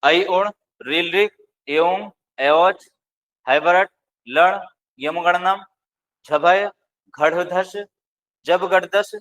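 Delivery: slow chanting of the fourteen sutras; slow Maheshwara sutra chant; Sanskrit recitation. Shown as a demonstration. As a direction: recite each sutra slowly and evenly. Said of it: "चौदह माहेश्वर सूत्रों को".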